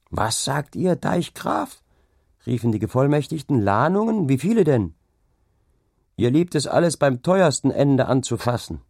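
men at the card table jolted by bad news; shocked questions at the dike-reeve; alarmed commissioners. A narrator's reading.

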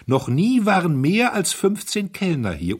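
almost shouting his certainty; excited cry. Acted. Young duke insists to the chairman, excited high cry. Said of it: "rief der Herzog aufgeregt".

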